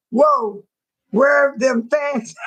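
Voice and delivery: hammed-up yell asking for the fans; mock shout. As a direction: shout it out, dragging the words.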